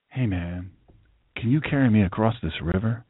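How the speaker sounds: lightly voiced low, casual scorpion; scorpion asking a favor. Scorpion asks the frog for a ride, lightly acted low request. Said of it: "Scorpion asks the frog".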